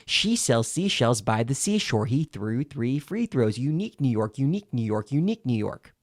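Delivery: crisp, continuous run of tongue twisters; consecutive tongue twisters. Shown as a demonstration. Coach demonstrating all three tongue twisters, run consecutively. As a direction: roll straight from one into the next, fully articulated. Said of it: "you say them all consecutively".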